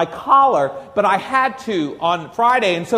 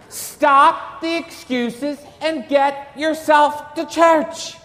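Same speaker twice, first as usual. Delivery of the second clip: stern command; 5 semitones higher, slower than usual. Acted. Priest scolding congregation after excuses.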